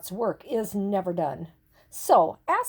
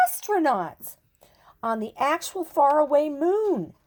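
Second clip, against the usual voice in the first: higher whisper full of wonder; awed whisper; 5 semitones higher than usual. A narrator's reading. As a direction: breathe it out in awe.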